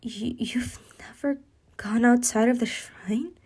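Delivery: whispered shocked question; hushed disbelief. Acted. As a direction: breathe it out in disbelief. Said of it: "And Hinata would say".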